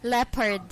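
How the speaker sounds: "Leopard" said as LEP-erd, two syllables; corrected pronunciation. Shown as a demonstration. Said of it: "I'm so sorry".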